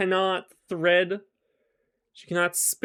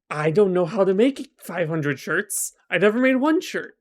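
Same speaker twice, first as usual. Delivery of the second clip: hammed-up flustered disbelief; mock dismay; 5 dB louder than usual. Daughter locked back in the tower, protesting in mock dismay. Daughter voiced facing impossible task.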